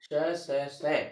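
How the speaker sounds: श, स, स drawn out very slowly, hissing each one; teacher sounding out the sibilants slowly; slow letter demo. Shown as a demonstration. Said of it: "साथ ही".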